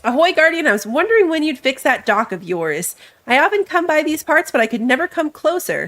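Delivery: lightly voiced friendly sea trader; ship merchant voice. Reading merchant's dialogue.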